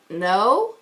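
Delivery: retold low, questioning no with attitude. Customer answers the teller's question, with attitude. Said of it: "with an attitude".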